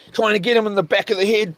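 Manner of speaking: ordinary talk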